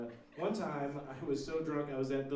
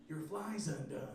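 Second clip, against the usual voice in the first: retold whisper; 7 dB quieter, slower than usual. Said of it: "he whispered in my ear".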